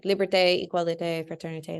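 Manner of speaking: liberté, égalité, fraternité in a light French accent; teacher's playful hint of a French accent. Shown as a demonstration. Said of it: "Love my French accent right there".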